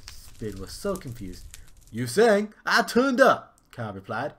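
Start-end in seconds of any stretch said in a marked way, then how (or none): 1.9-3.6 very high, loud squeal; squeaky cartoon bear. Kyle the bear greets the prince, very high and loud. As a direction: play the bear as a shrill mate.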